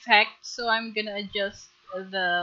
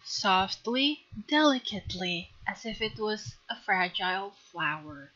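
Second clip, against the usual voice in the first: softer, fading tender instruction; dreamy soft delivery; 4 dB quieter than usual. Real, not acted. Teacher to viewers, describing soft shading in a dreamy, softer voice. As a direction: drift off gently as if coaxing a flower. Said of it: "I'm sorry if I'm speaking like this".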